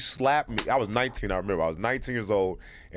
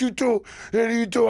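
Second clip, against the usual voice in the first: high, louder mock threat; a mild mock yell, pitched up; retold yell; 12 semitones higher, 4 dB louder than usual. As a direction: try to sound big and scary. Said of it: "I'm yelling, trying to be big".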